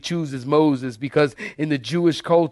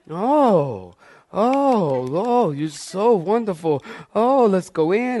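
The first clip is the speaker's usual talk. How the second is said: gushing red carpet chatter; 3 semitones higher, slower than usual. Retold or imitated.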